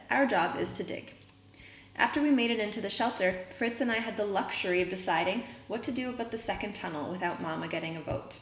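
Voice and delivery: reading a novel aloud to the class; story reading. A narrator's reading. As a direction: read the chapter out steadily for students.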